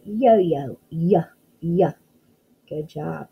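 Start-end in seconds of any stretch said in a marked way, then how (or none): 0.0-0.8 Yo-yo said clearly, each syllable even; sounding out. Shown as a demonstration. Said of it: "Say that word". 0.9-1.9 Y, y as a repeated isolated y sound; teacher sounding out the letter. Shown as a demonstration. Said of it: "What does yo-yo start with?".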